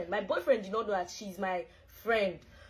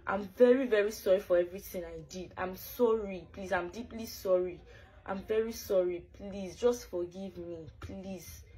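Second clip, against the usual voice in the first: begging forgiveness. Real, not acted. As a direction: plead over and over for forgiveness. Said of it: "Why are you begging now?".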